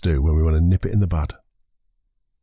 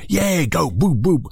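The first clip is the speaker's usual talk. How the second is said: overexcited cheer; 7 semitones higher, slower than usual. Shown as a demonstration. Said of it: "No, that's right".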